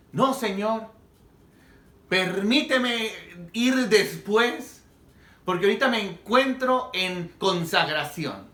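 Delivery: mock a stalling believer begging for time; hammed-up pleading for delay; excuse-making Peter. Imagined excuses of a disobedient Peter.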